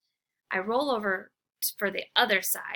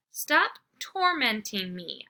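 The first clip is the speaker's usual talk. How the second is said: whining; slower than usual. Acted. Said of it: "I whine".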